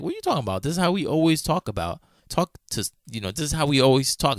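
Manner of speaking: high-pitched, quick retold objection; mock protest. Friend defending his joking to an offended woman, mock protest. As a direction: imitate a friend acting baffled and defensive.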